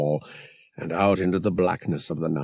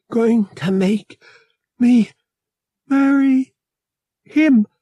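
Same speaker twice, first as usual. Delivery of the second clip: much higher, louder, breaking with distress; 6 semitones higher, 4 dB louder than usual. A narrator's reading. Bria telling Han of the forced marriage, panicked. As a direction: plead it in rising panic.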